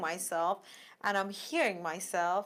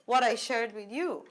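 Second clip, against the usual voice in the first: higher and louder, stunned disbelief; shocked confronting; 7 semitones higher, 7 dB louder than usual. Retold or imitated. Confronting the coworker who told everyone, shocked and louder. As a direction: demand why she shared it, voice up in shock. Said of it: "And then I'm like".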